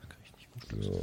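whispered aside to himself. Real, not acted. Stuck on the wrong computer, whispered aside. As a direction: breathe it, barely voiced.

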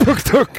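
high mock thud noises; thudding sound effect. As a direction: imitate a head bonking on the floor. Imitating a head hitting the floor.

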